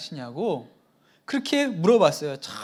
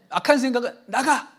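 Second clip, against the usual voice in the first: firm, slightly raised command; commanding rebuke; 4 semitones higher, 3 dB louder than usual. Retold or imitated. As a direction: order the thought out. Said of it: "이렇게 하면 되는 거죠". (악한 생각을 단호하게 쫓아내듯)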